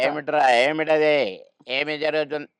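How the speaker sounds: mock scolding schoolmaster asking what's going on; lightly voiced cranky teacher; teacher impression. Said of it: "ఆయన మాట్లాడేవాడు అట్లా".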